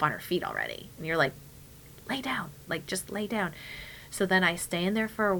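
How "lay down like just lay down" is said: softly spoken urging; hushed coaxing. Retold or imitated. Mom urging her toddler back down, hushed.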